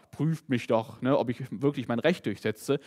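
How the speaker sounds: lightly voiced strict judge. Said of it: "hier sagt nicht ein strenger Richter oder Verwalter".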